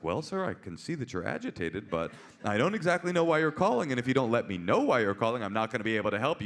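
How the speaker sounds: measured, official patience; chill professional cop. Retold or imitated. Cop answering an agitated caller, professional composure. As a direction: stay polite and unruffled. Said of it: "the most professional poli".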